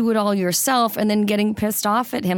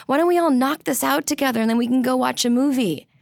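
cheerful invitation; 5 semitones higher than usual. Retold or imitated. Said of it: "instead of just saying".

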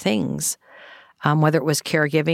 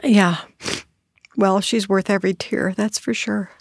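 tearful, voice breaking, pitched up; speaking through real tears; crying; 3 semitones higher than usual. Real, not acted. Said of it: "Sorry, I'm crying".

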